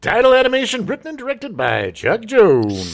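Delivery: high, loud cartoon duck voice; Daffy Duck voice. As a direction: squawk it like Daffy. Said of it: "After Daffy says the slogan".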